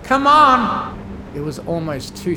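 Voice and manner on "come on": high, loud shout of urging; big sister urging the filly over the storm; urgent scream. A narrator's reading. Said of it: "she had to scream to even hear herself".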